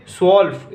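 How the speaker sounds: स्वॉल्फ as German twelve, opening on "sw" with no t; silent t. Shown as a demonstration. Teacher modelling German twelve, स्वॉल्फ as "swolf" without t. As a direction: say स्वॉल्फ as one beat, "swolf", the t left silent. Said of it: "इसमें भी तय silent होता है".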